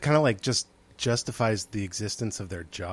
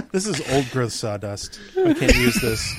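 hipster voice. Pretend. Mocking Portland hipster.

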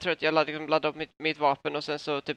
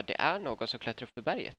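offhand, slightly softer mention; casual, in passing; 5 dB quieter than usual. Acted. Player's character tells El Tauro in passing, casual. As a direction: drop it lightly as an aside. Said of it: "säger jag det lite i förbifarten".

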